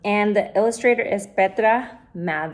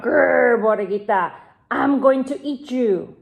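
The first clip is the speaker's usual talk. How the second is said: growling coyote. Acted. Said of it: "The coyote growled".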